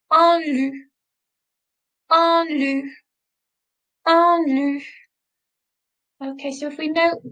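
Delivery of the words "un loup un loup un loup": "loup" said as "lou", no final consonant; French teacher modelling "Un loup" with silent ending. Shown as a demonstration. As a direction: drop the final letter of "loup". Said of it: "I'm not pronouncing it".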